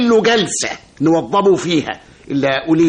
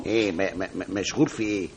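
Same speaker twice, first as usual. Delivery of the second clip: stammering; 9 semitones lower, 11 dB quieter than usual. Acted. Stunned by the news.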